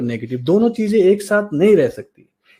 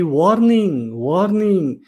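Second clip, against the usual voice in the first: drawn-out imitation of an alert; inner warning alarm. Inner siren warning you of a virus, drawn-out alarm call. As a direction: sound an internal alarm, stretching each word. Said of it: "भी आवाज आनी चाहिए कि".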